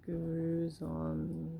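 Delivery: slow, solemn monk chant. Acted. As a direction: intone it slowly like a meditating monk. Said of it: "Wow, very monk-like".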